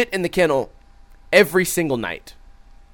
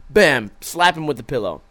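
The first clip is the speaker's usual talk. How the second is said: ordinary delivery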